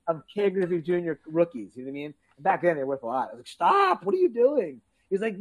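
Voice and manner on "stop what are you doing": high, alarmed mock yell; panicked shout. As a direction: cry out to stop him. Watching friend rip up cards.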